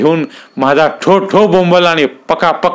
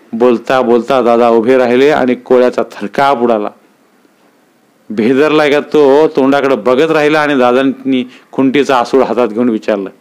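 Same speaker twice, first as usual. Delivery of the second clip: ordinary delivery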